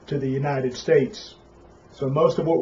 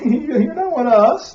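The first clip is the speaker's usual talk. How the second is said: mock rejecting locals; 10 semitones higher than usual. Voicing Europeans rejecting the Italian.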